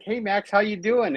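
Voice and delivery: imitating her happy hello; happy greeting. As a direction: greet him all sunny and glad. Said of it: "she's all happy".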